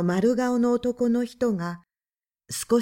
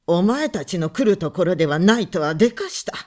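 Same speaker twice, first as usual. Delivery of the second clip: louder, fast sarcastic repeat of お前たちの来るところではない; mocking echo; 4 semitones lower, 4 dB louder, faster than usual. A narrator's reading. Visitor man mocking the husband's words, sarcastic. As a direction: throw his own words back with a sneer.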